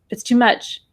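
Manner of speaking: tight, alarmed words straight after a gasp, breath held; mock panic, too much punched; mild alarmed gasp. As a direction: say it as if frightened by the amount, holding the breath. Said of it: "I don't want anybody going".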